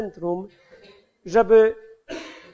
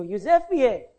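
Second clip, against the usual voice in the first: imitating dad, higher and louder as it goes; father's insistent admonishing; 5 semitones higher, 5 dB louder than usual. Father to his impatient child while fishing, insistent admonishing. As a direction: lecture the child, building to loud insistence. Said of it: "I on ciągle mi mówił".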